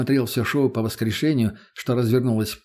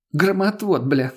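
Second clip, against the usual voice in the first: mocking echo; 6 semitones higher, slower than usual. A narrator's reading. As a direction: throw his word back at him. Lena mocks his word.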